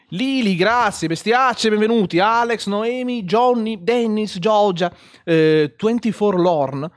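loud, high roll-call shout; calling out names. Real, not acted. Streamer thanking supporters by name, loud calling out. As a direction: belt out each name to the crowd.

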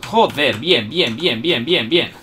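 loud, rapid triumphant yells; frantic excitement. Real, not acted. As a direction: shout in the heat of the fight. Frantic firefight.

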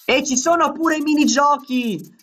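real gamer triumph; excited cheer. Real, not acted. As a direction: shout it out like you just beat the night. Finishing the first night, cheering.

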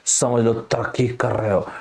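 a hint of a grave movie hero; Abhishek Bachchan dialogue. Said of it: "Abhishek Bachchan साहब ने एक line बोला".

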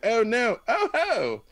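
high, loud squeal of alarm; shocked young woman. Acted. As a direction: squeal in panic. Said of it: "she was like".

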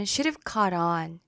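should have caught on said smoothly linked. Shown as a demonstration. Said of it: "이렇게 발음하네요".

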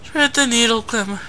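talking through clenched teeth; gritted teeth. Real, not acted. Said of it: "I'm actually talking through my teeth".

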